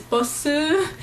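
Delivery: "bosu", an extra "oo" vowel after the s; English bus reshaped as Korean "bosu"; Korean-style pronunciation. Shown as a demonstration. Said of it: "they pronounce them the way".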